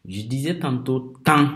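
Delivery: temps with the nasal vowel sounded through the nose. Shown as a demonstration. Teacher to class, showing the nasal vowel in temps. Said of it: "avec la voyelle nasale".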